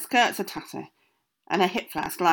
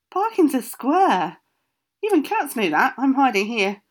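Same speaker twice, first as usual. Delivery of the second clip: cat voice; 6 semitones higher, 6 dB louder than usual. Acted. Tom Cat comments.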